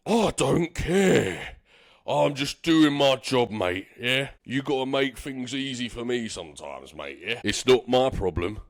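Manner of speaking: lightly voiced dismissive bouncer; a hint of a bored bouncer. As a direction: brush him off, mate.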